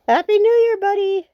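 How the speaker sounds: high, loud happy greeting; excited greeting. Real, not acted. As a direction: shout it up high to a friend. Greeting another player excitedly.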